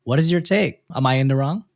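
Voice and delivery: measured read-aloud with lifted phrase starts; reading a post aloud. A narrator's reading. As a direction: read out the letter clearly, pausing between phrases. Reads a listener's post aloud.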